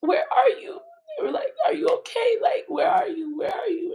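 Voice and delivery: high, urgent, tearful questioning; retold panicked calls. Everybody calling to find Tati, imitated panicked voice. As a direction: imitate frantic callers, pitched right up.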